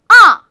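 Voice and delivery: 아 short and loud, falling sharply from high; fourth tone. Shown as a demonstration. Teacher showing learners the fourth tone, falling 아. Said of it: "뚝 하고 떨어뜨리는 게 바로 사 성".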